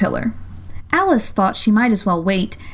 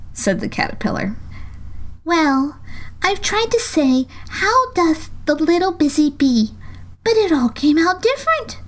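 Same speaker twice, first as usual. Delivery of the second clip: melancholy; 8 semitones higher than usual. A narrator's reading. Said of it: "in a very melancholy voice".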